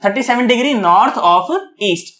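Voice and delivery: slow and deliberate. Shown as a demonstration. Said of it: "इसको आप ऑफ की तरह पढ़ें".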